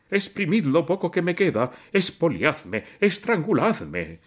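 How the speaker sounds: high, loud, slowing into a wail; shrill raging shout; shrill furious cry. A narrator's reading. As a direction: screech it out like a man being robbed. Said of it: "gritaba con voz aguda".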